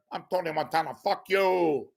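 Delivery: high-pitched Tony Montana sign-off; Scarface. Acted. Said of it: "What if Scarface was a stand-up comic?".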